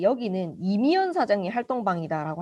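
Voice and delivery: ordinary talk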